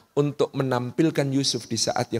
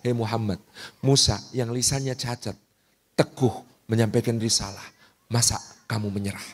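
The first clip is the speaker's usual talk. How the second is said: softer, coaxing voice, asking why he'd give up; gentle reassuring rebuke; 6 semitones lower, 4 dB quieter than usual. Retold or imitated. Preacher voicing God comforting the Prophet, soft and coaxing. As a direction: encourage him softly not to quit. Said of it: "Allah hendak mengatakan".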